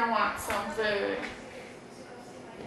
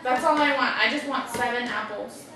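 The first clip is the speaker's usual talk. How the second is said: put-on girl bird voice. Girl bird orders food.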